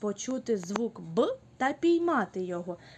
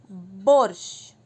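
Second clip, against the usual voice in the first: 1 loud call; 3 semitones lower, 9 dB louder than usual. Shown as a demonstration. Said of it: "піймайте це слово".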